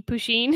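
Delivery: "Pusheen" as poo-sheen, rising at the end; pronunciation as imagined. Shown as a demonstration. Host likening it to the cat meme, "Pusheen" as poo-sheen. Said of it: "that's how I was saying it".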